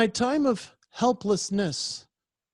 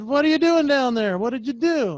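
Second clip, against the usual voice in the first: calling to a dog; 5 semitones higher, 4 dB louder than usual. Retold or imitated.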